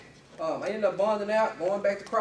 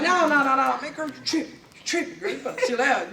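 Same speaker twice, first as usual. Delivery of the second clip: laughing denial; 4 semitones higher than usual. Retold or imitated. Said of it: "I'm like".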